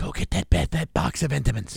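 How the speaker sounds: whispering. Joking about what a dog whisperer whispered to the dog: imitating a whisper. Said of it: "he whispered".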